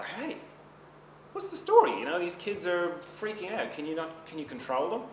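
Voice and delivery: loud and high, the patience finally snapping; fed up, firing it at the father; exasperated outburst. Retold or imitated. Passenger on bus losing it at the father, angry outburst. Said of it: "eventually loses it".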